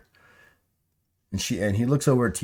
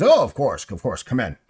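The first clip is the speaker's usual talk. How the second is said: higher, louder burst easing off; eager welcome; 5 semitones higher, 6 dB louder than usual. Acted. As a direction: usher visitors in readily. Game master voices host welcoming visitors.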